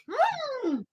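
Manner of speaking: mm through a bite; mouth full. Real, not acted. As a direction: hum with food in mouth. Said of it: "I'm taking another bite".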